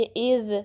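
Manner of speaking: इज़ with no tha sound at the end; इज़ without escaping air; voiced dhal. Shown as a demonstration. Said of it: "सा की sound नहीं आनी चाहिए".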